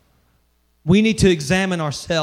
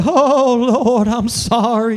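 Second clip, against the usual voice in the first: louder, higher hammed-up weepy plea; mock emotional cry; 4 semitones higher, 5 dB louder, much slower than usual. Pastor parodies a tearful altar apology, hammed-up cry. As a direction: overplay the tearful churchy sorry. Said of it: "emotional cry".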